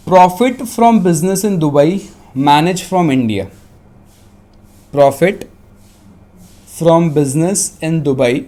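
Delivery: measured dictation with pauses; dictating. Real, not acted. Teacher dictating a question to students, dictation voice. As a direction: dictate phrase by phrase. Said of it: "मैं dictate कर रहा हूँ".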